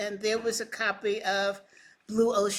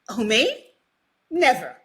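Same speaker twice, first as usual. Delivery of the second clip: louder, punchy sarcastic denial; mock innocence; 2 semitones higher, 8 dB louder than usual. Coach denying sarcasm to her colleague, mock-innocent. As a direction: feign innocence, a word at a time.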